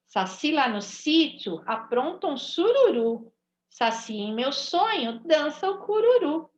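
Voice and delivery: put-on rhythmic sing-song poem read to children; bouncy children's poem recital. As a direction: read the verses to the class with a lively beat. Reads poem to class.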